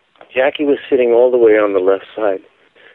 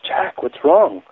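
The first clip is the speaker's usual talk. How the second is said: slow, higher-pitched tender concern; 7 semitones higher, slower than usual. Retold or imitated. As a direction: gently voice a worried wife asking her husband. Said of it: "and very tenderly".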